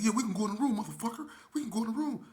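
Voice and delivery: mock challenge. Retold white boy accepting fight.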